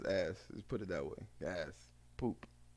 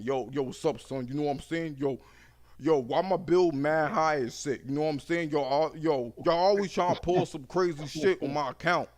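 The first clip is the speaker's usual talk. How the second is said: caller impression; 3 semitones higher, 4 dB louder than usual. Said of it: "because I sound just like these motherfuckers".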